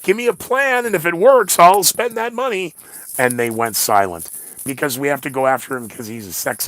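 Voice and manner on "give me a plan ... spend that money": much higher, louder mock Elon voice; high mock Musk voice; imitating Elon. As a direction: play the billionaire, squeaky and cocky. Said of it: "And Elon says".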